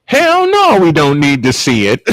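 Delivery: mock Southern wife, Hell no jumps high; a light Southern twang, big high Hell. Husband imitating his wife's Southern Hell no. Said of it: "With her Southern twang in tow".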